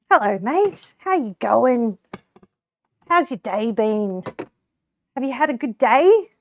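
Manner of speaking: hammed-up country Australian accent, cheery; a chirpy broad Aussie greeting, Australian twang. Shown as a demonstration. Streamer demos her country Australian accent for chat. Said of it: "I can put on, like, the very country Australian accent".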